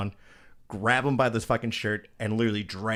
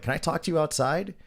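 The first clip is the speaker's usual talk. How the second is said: higher-pitched friendly request; overly friendly; 7 semitones higher than usual. Retold or imitated. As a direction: coax him outside, imitating a friendly tone. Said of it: "fucking as friendly as possible".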